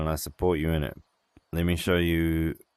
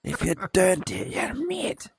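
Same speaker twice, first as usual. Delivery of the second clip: stern schoolmaster; 3 dB louder than usual. Pretend.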